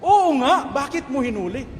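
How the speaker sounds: commander scolding. Retold or imitated. Angry commander scolding the soldier.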